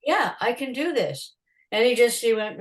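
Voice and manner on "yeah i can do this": higher, swooping self-assertion; insistent retort. Retold or imitated. Photographer assuring the doubting promoter, insistent. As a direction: insist on it in the retelling.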